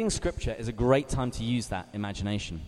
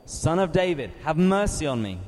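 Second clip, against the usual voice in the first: crying out more; 3 semitones higher than usual. Acted. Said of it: "he cried out all the more".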